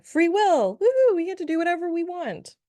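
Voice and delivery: high, loud cheer of woohoo; bright high whoop of joy; excited cheer. Real, not acted. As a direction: celebrate it like a little party. Cheering for free will.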